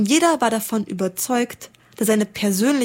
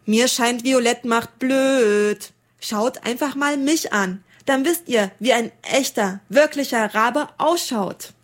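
conceited golden raven; 3 semitones higher than usual. Acted. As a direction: look down on everyone else. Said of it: "sagte ein goldgelber mit moosgrünem Bauch".

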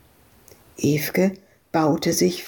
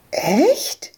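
surprised; 8 semitones higher than usual. Acted. Madita surprised.

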